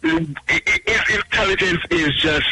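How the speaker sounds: sarcastic. Acted. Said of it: "I'm being sarcastic right now".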